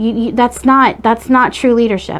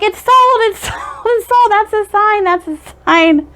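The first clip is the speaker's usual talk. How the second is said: much higher, squealing with joy, breaking into a laugh; excited old lady; 11 semitones higher than usual. Retold or imitated. Old Italian lady thrilled the bird made the sale, squealing excitedly. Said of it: "the old lady got all excited".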